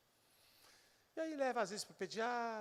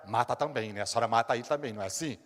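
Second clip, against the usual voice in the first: pointed retort; 3 semitones lower, 6 dB louder, faster than usual. Retold or imitated. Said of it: "eu tive que dizer pra ela".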